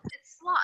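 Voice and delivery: "slot" said with a clear open vowel and final t; correct pronunciation. Shown as a demonstration. Teacher models "slot" for students, clear and careful. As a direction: model "slot" crisply for the class. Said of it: "please stop say, pronouncing it like this".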